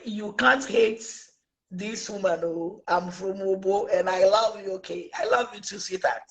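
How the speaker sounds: soft, low lovers' voice; mock sweet talk. Retelling a couple saying I love you, soft imitation. Acted quote of sweethearts talking.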